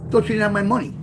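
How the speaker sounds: reliving the moment he caught Wayne betting; angry retold shout. Retold confronting Wayne about money.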